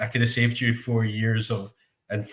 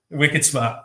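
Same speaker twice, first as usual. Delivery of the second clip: put-on "wicked smart" said higher and louder in a playful Boston accent; mock Boston accent; 4 semitones higher, 4 dB louder than usual. Riffing with his cohost on Good Will Hunting, in a mock Boston accent. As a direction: toss off "wicked smart" like a Boston local, raised. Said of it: "what a Boston accent sounds like".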